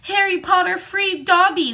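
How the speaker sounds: high, squeaky house-elf, amazed; shrill elf. A narrator's reading. Dobby gazing up at Harry, high shrill elf voice. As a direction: elf marvelling at his freedom. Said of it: "said the elf shrilly".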